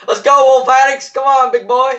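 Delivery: high, loud trash-talk; hyped taunt. Real, not acted. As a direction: egg on the enemy, pumped up. Taunting an enemy player in fight.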